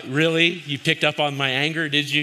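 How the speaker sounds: high, loud mocking jab; sarcastic retort. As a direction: throw it back at her with biting sarcasm. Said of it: "but I didn't say that".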